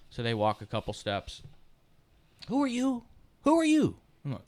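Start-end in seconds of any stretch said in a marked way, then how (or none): 2.5-4.0 put-on much higher, lost old man asking; confused old uncle. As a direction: play the bewildered uncle who knows nobody. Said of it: "my Uncle Ray would look at my dad and say".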